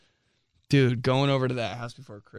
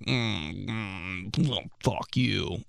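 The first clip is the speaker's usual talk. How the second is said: mopey; 4 semitones lower, 7 dB quieter, slower than usual. Retold or imitated. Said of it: "super mopey".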